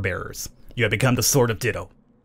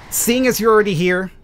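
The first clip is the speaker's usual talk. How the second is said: villain voice. Acted. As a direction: apologize coldly before striking. Mormo ends the hero.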